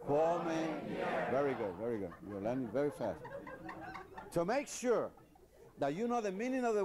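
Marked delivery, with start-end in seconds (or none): 0.1-1.3 each syllable of "Come mierda" drawn out slowly; slow drill word. Shown as a demonstration. Teacher modelling "Come mierda" slowly for students.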